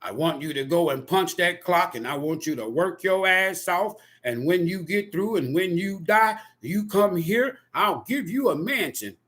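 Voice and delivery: a hint of a lordly God making hollow promises; mocking God voice. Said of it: "So your God told you".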